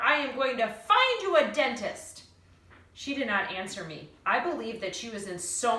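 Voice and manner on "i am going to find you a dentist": loud, raised promise; louder determined shout. Acted. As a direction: call it out firmly over the noise. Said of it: "I shouted at her".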